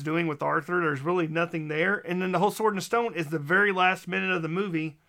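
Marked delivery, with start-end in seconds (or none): 2.1-5.0 talking fast with a lisp. Real, not acted. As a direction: lisp slipping through rushed words. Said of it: "the lisp is coming worse".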